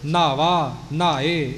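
ਨਾਵਾ and ਨਹਾਏ firmly, each sound tight; firm careful words; said tightly. Shown as a demonstration. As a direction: press ਨਾਵਾ, ਨਹਾਏ out crisply. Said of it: "ਇਉਂ ਕੱਸ ਕੇ ਬੋਲਣੇ ਨੇ".

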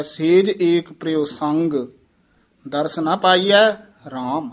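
rest after ਸੰਗ, then rise on ਪਾਈਐ; pause after ਸੰਗ. Shown as a demonstration. Teacher demonstrates the rest after ਸੰਗ. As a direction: break at ਸੰਗ, then carry on to ਰਾਮ. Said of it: "ਸੰਗ ਪਦ ਤੇ ਵਿਸਰਾਮ ਹੈ".

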